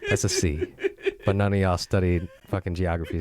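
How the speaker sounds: mock French accent. Host introducing the most fashionable episode, mock French accent. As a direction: put on a slightly camp French accent. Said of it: "That was French".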